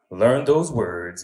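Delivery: learn those words, spaced slow and heavy; stern slow warning, each word its own beat; slow deliberate order. Retold or imitated. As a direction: spell it out word by word. Manager stresses each word slowly.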